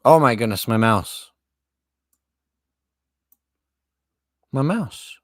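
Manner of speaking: loud high exasperated cry; exasperated outburst. Real, not acted. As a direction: cry out at the mouse. Mouse malfunction outburst.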